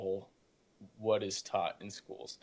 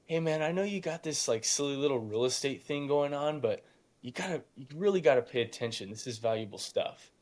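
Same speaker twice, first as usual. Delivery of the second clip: imitating teacher; 4 semitones higher than usual. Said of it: "he would go".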